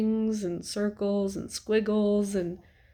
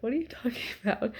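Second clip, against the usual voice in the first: puzzled laugh; 4 semitones higher, 3 dB quieter, faster than usual. Retold or imitated. Retold own puzzled reply.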